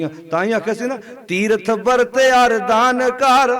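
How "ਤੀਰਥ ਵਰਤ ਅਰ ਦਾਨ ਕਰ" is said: slow, drawn-out sacred verse; open-voiced verse recitation. Shown as a demonstration. Preacher leading the congregation in a shlok, slow open recitation. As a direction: stretch each word for the congregation to follow. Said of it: "ਸ਼ਲੋਕ ਖੋਲ ਕੇ ਬੋਲੋ".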